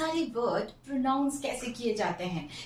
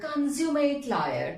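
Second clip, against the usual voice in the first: slow demo; 3 semitones higher, 3 dB louder, much slower than usual. Shown as a demonstration. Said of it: "How to pronounce".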